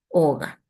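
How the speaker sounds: "óga" stressed on its first vowel, drawn out; written accent stressed. Shown as a demonstration. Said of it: "óga ha'e moanduhehai". ("óga" con acento alargado en la ó)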